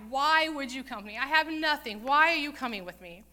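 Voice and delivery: loud, anguished protest, acted out; bitter crying out. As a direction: cry it out as a bitter mother-in-law. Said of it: "just crying out".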